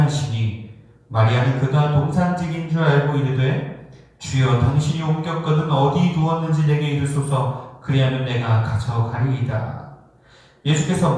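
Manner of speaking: measured, even reading of scripture; solemn Bible recitation. Acted. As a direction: read the verse out formally. Reads the scripture passage aloud.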